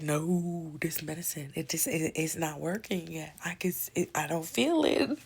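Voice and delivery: mock-anxious pleading, rising at the end; panicky protest. Patient tells staff the medicine isn't working, panicky protest. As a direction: plead with mild panic, laughing after.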